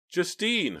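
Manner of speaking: high startled cry of her name; shocked cry. A narrator's reading. Philip seeing his niece appear, shocked cry. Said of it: "Philip cried".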